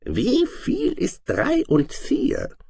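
slow, high, menacing monster question; sly dragon screech, stretched out; lurking dragon. A narrator's reading. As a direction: draw out the trap question like a dragon. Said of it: "fragte der Drache lauernd".

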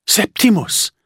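high, ringing call of a name; delighted shout of Septimus; joyful call. Acted. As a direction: call out his name, overjoyed to see him. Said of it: "rief Jenna".

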